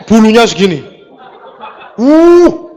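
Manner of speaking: loud, laughing mock revulsion; laughing disgust. Preacher to congregation, laughing in mock disgust. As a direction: laugh while recoiling from the stench.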